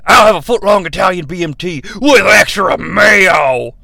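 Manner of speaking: lightly done Hulk Hogan voice. Acted. Hulk Hogan orders a sandwich.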